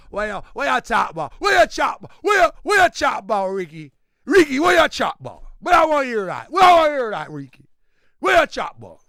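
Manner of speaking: loud, high mock Jamaican shouting; Jamaican accent. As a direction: heckle loudly in a put-on Jamaican accent. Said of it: "That was Jamaican accent".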